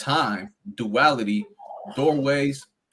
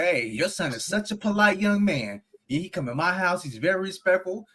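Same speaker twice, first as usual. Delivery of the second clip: praising neighbor lady; 4 semitones higher than usual. Retold or imitated. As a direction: gush to another mother about her polite son. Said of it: "she talk to your mom and be like".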